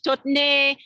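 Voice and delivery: "Tottenay" said the French way, stress on the last syllable, -nay; mock French pronunciation. Shown as a demonstration. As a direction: pronounce "Tottenay" as a French word, TOT-te-NAY. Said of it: "I'll say it in French".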